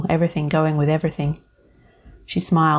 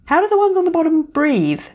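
incredulous; 12 semitones higher, 3 dB louder than usual. Acted. Absurd mock question, rising.

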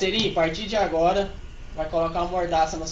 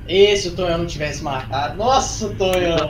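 excited; 6 dB louder than usual. Real, not acted. Heated argument in game.

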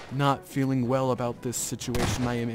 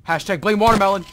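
shouted catchphrase; 9 semitones higher, 14 dB louder than usual. Real, not acted.

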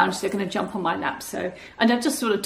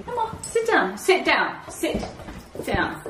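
higher dog-directed coax; 4 semitones higher, slower than usual. Real, not acted. Owner coaxes her whippet to sit, higher. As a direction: sweeten it up for the dog. Coaxing the dogs.

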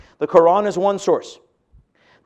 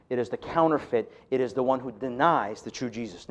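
much softer, lower, grave; solemn hush; 5 semitones lower, 8 dB quieter than usual. Real, not acted. Preacher driving home the counterfeit Jesus, hushed and grave. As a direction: let it sink in quietly.

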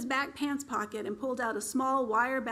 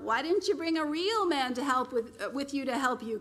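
calling out; 3 semitones higher than usual. Acted. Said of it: "cupped her hands around her mouth and called out".

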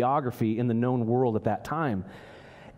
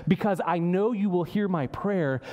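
Jonah insisting, voice raised higher; Jonah's earnest prayer; 5 semitones higher than usual. Retold or imitated. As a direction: plead straight to God, urgent and sure. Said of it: "And Jonah's saying".

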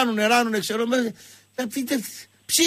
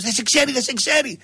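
higher, urgent mock panic; acted anxiety; 4 semitones higher than usual. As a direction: imitate a flustered woman getting anxious. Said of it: "αρχίζει να την πιάθει ένα άγχος".

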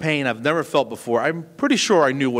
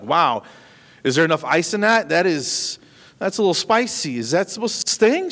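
stinging shock; 5 semitones higher than usual. Retold or imitated. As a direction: squeal through the cold sting. Retold reaction to ice-cold antiseptic.

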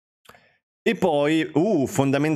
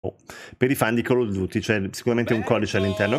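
ordinary talk

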